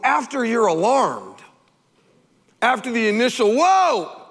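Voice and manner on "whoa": mock startled whoa. Acting initial alarm.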